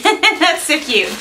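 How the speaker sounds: high, slow gush with a laugh; giggly delight. Real, not acted. Vlogger reading the sticker, cooing high with a giggle. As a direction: coo over it, tickled.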